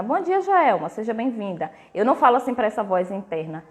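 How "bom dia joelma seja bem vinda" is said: mock welcome. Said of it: "não começo a falar assim".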